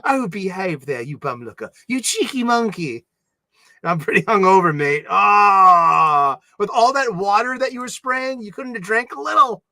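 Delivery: hammed-up British banter; British accent. Teasing a hungover mate, playful put-on British accent. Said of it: "in my British patois".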